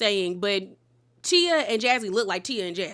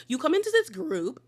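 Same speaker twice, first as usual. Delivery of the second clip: high-pitched imitation British accent; attempted British accent, pitched up; mock British accent; 7 semitones higher than usual. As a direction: mimic someone putting on a British accent. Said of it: "doing, like, a British accent".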